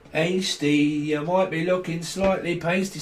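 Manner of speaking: put-on Scouse lilt; Scouse accent. Reader teasing Steve for looking pasty, Scouse accent. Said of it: "Someone's a Scouser".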